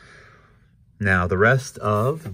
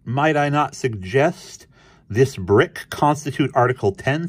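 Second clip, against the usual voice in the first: higher-pitched suggesting cartoon mouse; Ignatz; 6 semitones higher, 4 dB louder than usual. A narrator's reading. Ignatz suggests his brick as an article, higher voice. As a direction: put it forward pitched up, measured.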